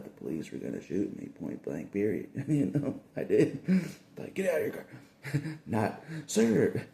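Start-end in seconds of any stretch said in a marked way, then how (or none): 4.3-4.9 high, sharp order to get out; cop barking orders. Retold or imitated. Cop ordering the driver out of his car, harsh shout. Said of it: "You know how they do that nice thing?". 6.3-6.8 high, overly courteous officer voice; mock the nice traffic-stop greeting; polite cop. Cop politely asking the driver for his papers, mock courtesy. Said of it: "You know how they do that nice thing?".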